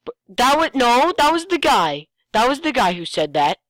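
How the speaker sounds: high and loud, correcting the speaker; excited correction. Real, not acted. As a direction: blurt out that it was the guy. Correcting who spoke in the story.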